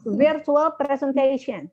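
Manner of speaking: slow "presentation" with a clear "shen" at the end; marked shen ending. Shown as a demonstration. Teacher drilling a student on shen, slow model. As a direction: draw out "presentation", finishing on a hushing "shen". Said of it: "Shen-nya di ujung boleh di-syehkan lagi".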